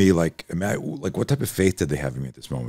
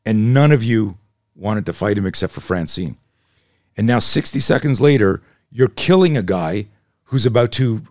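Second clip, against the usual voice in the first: fired-up lecture; 4 semitones higher, 4 dB louder than usual. Retold or imitated. Instructor confronts the class, lecturing hard.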